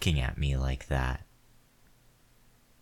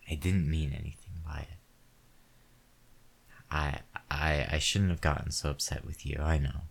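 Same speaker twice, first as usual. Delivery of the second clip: frightened man apologising to the armed woman; nervous pleading; faster than usual. Acted. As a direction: talk her down, scared and rushing. Pleading, backpedalling under threat.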